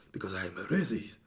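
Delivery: put-on Asian accent on the punchline; lightly exaggerated Asian accent; mock Asian accent. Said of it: "speaking with his natural Asian accent".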